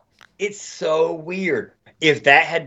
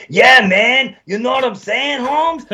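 high, loud exaggerated Hispanic accent, climbing to a very high Holmes; over-the-top Hispanic accent climbing in pitch; gay Hispanic accent; 9 semitones higher, 4 dB louder than usual. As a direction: ham up a campy Hispanic voice for a bystander. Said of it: "I found my gay Hispanic accent".

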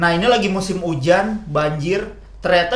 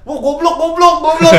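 high-pitched mock heckle, getting louder; retold jeering yell; 10 semitones higher, 6 dB louder than usual. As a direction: imitate kids yelling down from above. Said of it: "ada yang di atas kan pada teriak-teriak". (meneriaki dengan nada tinggi)

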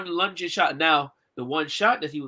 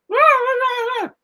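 much higher, louder wordless rah sounds; imitating his vocalizing; 7 dB louder, slower than usual. Storyteller imitates how the deaf guy spoke in the fight, high loud rahs. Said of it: "He used to talk like that".

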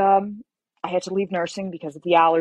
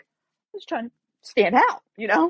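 high, slow self-justification; mock defensive; 6 semitones higher than usual. Applicant excusing her shocking blue suit, mock defensive. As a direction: plead your case in a higher voice.

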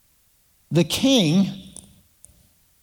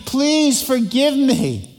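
higher, pleading, stretching out the final please; begging servant; 5 semitones higher than usual. Acted. Servant begging the king to forgive his debt, pleading. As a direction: beg the king for mercy. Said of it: "And the man said".

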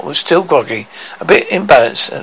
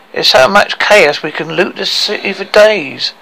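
higher, mildly joyful scheming; gleeful; 5 semitones higher than usual. Acted. Dwarf thrilled about looting the city, gleeful. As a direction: relish the looting, voice lifted. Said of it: "he crackled in joy".

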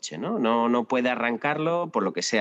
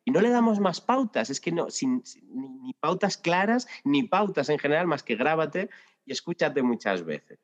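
higher, animated disbelief; exasperated; 6 semitones higher than usual. Real, not acted. Podcast guest ranting about vague teacher advice, exasperated. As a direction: marvel at how little guidance we give. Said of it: "es broma".

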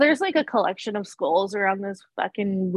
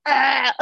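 imitated groan; 4 semitones higher, 3 dB louder than usual. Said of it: "she's like".

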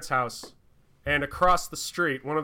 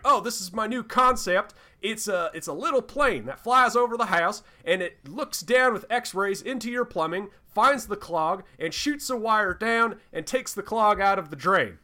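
higher, hammed-up fake Southern accent; 5 semitones higher than usual. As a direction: retell a radio ad guy in a put-on Southern accent. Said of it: "in this very fake Southern accent".

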